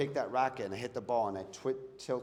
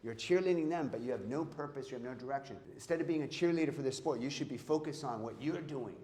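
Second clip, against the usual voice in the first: higher-pitched mock rant of an exasperated father; Attila scolding; 5 semitones higher than usual. Father berating his sports-mad son, a hammed-up higher-pitched rant. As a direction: replay dad berating his son, half-serious and heated. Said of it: "he's like".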